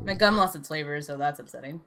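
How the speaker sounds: talking while chewing gum; words round a wad of gum. Real, not acted. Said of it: "Stop chewing gum on the podcast".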